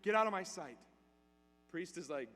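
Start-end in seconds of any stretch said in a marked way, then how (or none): 0.0-0.8 retold angry rant, rising in volume; mock fury, building to a louder last order; mad outburst. Old man orders the priest out of his room, mad outburst. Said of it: "He is so mad".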